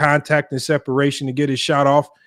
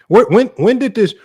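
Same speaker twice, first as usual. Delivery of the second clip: exasperated outburst; 8 semitones higher, 5 dB louder than usual. Real, not acted. Exasperated rant about new terms.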